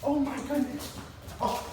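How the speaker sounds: high-pitched, excited gush; high excited exclamation; high energy. Shown as a demonstration. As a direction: burst out with excited praise for the dog. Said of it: "Now I'm gonna be high energy".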